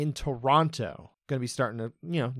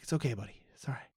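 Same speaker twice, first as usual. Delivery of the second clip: soothing; 6 dB quieter, much faster than usual. Retold or imitated. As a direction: quietly reassure a shaken fighter. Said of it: "He's got a very soothing voice".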